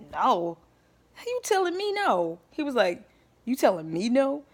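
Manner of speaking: an ex who can't believe he heard no; offended ex. Retold or imitated.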